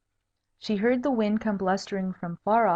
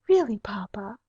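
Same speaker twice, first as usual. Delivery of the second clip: cold. Acted. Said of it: "with much coldness".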